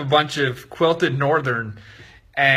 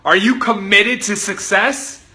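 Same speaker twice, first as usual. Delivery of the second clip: intense coach demanding commitment; really going in; 5 semitones higher, 3 dB louder than usual. Acted. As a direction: push the question harder, rising in pitch. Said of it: "Then he really went in".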